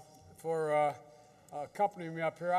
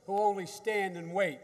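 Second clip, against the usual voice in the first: solemn quotation; 4 semitones higher, 4 dB louder than usual. Retold or imitated. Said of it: "He said".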